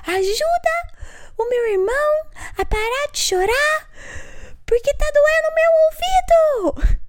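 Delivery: put-on very high, stretched-out toddler yelling; imitated child's screaming. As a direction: scream the prayer like an overwhelmed little kid. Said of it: "Aí ele começou a gritar".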